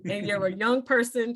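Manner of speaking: lightly voiced Southern dad accent. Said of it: "in his Southern accent".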